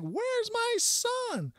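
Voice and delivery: high, slow, drawn-out mock scream; hysterical screaming mom. Mom bursting into the party, hysterical screaming. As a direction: shriek it like a panicked mother hunting her kid. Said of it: "a hysterical lady ... screaming something like".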